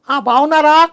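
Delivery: high-pitched greeting, not loud; greeting sung out high. Shown as a demonstration. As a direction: lift the pitch way up on ఆ, బాగున్నారా, not the volume. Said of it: "This is a pitch, not volume".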